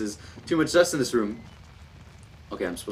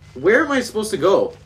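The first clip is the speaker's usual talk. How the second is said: higher-pitched frustrated outburst; raised, frustrated question; exasperated; 5 semitones higher than usual. Real, not acted. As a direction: really ask it, fed up and lost. Lost in game, asks again.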